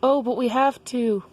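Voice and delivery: high, protesting character voice; Daniel. Acted. Daniel protests to Jessica about the assignment, high-pitched. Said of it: "And Daniel was like".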